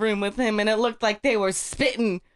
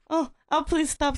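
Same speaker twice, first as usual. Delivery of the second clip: mock demon pleading; 5 semitones higher than usual. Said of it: "said the demon".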